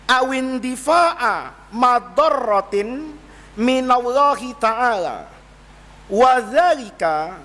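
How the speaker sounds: slow measured reading of Arabic; Arabic text recitation. Acted. Teacher reads the Arabic book passage slowly to students. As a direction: read out each phrase with long pauses.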